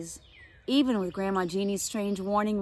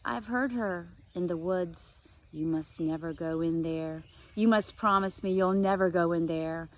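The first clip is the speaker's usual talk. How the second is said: tired, serious grandma. Acted. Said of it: "She sounded very tired, but very serious".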